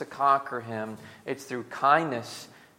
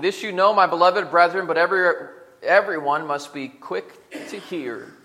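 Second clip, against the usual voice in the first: emphatic scripture reading; 4 semitones higher, 8 dB louder than usual. Real, not acted. Reading James aloud with force.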